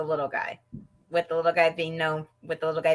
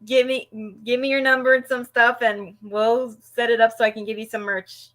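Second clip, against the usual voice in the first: lightly voiced wrestler, high and loud; a touch of a hammy wrestler; wrestler in kayfabe; 4 semitones higher, 4 dB louder than usual. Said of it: "in kayfabe, acting like he didn't like it".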